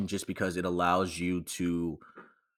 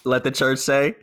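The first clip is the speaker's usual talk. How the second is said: preacher call and response, raised pitch; mock preacher; 6 semitones higher, 7 dB louder than usual.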